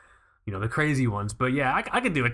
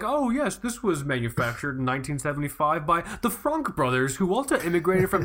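lightly posh authority voice, a touch higher; stuffy expert voice; 4 semitones higher than usual. Retold or imitated. Mocking what an authority sounds like, lightly put-on expert voice. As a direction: play the pompous watch historian, mildly. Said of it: "when I think authority, I think like".

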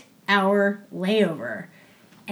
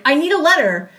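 retold urgent demand; 4 semitones higher, 4 dB louder than usual. Acting out her urgent demand.

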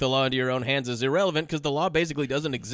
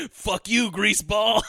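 sneering retort, a bit higher; mock snarl; 4 semitones higher, 3 dB louder, slower than usual. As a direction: spit the insult out mockingly. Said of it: "Kiefer Sutherland says".

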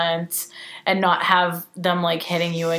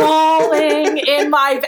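excited emphasis; 7 semitones higher, 5 dB louder, much slower than usual. Real, not acted. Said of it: "Like, crying".

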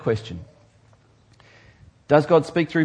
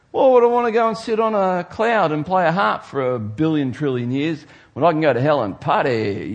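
scoffing worldly guy. Retold or imitated. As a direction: sneer at heaven like a cocky mate. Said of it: "you hear people talk like this".

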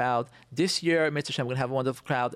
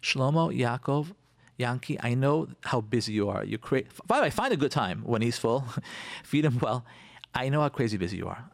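sweet coaxing; 3 semitones lower than usual. Pretend. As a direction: gently coax your husband. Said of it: "This is what you do".

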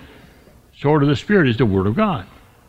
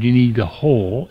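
"whole" held a little longer, with weight; stress on "whole"; 5 semitones lower than usual. Shown as a demonstration. Preacher urging listeners to take the whole armor, stressing "whole". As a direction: lean on "whole", drawing it out. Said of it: "emphasis on the word whole".

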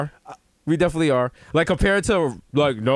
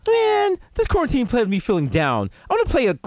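mopey celebrity; 4 semitones higher than usual. Pretend. Mocking a mopey rich celebrity.

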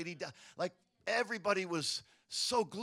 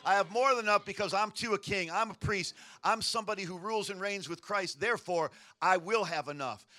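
preaching; 3 dB louder than usual. Acted. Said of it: "royal thinking says".

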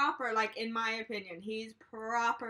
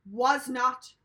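aggressive; 3 semitones higher, 6 dB louder than usual. Retold or imitated. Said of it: "real aggressive".

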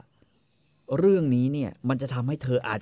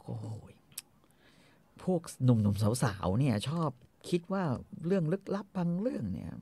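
a bit bashful; 4 semitones higher, 4 dB quieter than usual. Retold or imitated. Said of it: "แม่ก็ตอบแบบเขินๆนิดนึง".

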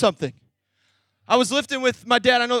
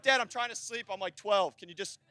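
sleepy, trailing off much softer; groggy complaint; 4 semitones lower, 12 dB quieter than usual. Retold or imitated. Teen son woken by dad's early weights, groggy and soft. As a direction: mumble it like you were just woken.

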